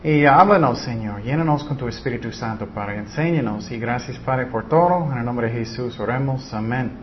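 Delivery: praying sincerely to the Father; hushed opening prayer. Real, not acted. Opening prayer before the study.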